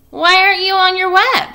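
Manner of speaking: put-on high and loud, an anxious young pig; worried piglet. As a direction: call out, alarmed she has left. Wilbur worried, calling out.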